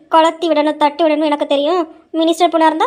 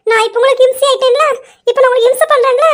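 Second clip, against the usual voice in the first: higher-pitched, indignant comeback; offended, raised-pitch retort; indignant wife; 5 semitones higher than usual. Acted. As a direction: throw his complaint back at him, hurt and huffy. Wife hurt at being called nuisance.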